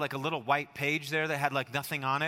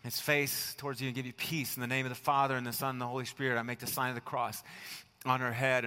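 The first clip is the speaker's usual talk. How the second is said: quiet blessing; 2 semitones lower, 4 dB quieter than usual. Retold or imitated. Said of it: "Then I would say".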